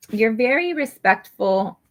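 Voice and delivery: words spluttered out wet; spitting while talking. Real, not acted. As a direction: spit slips out mid-word. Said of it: "I just spit all over".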